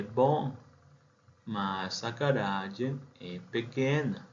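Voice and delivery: slow, careful Portuguese drill reading; slow model reading. Shown as a demonstration. Teacher reading Portuguese sentences aloud for students, slow and careful. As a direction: read each phrase slowly for students to repeat.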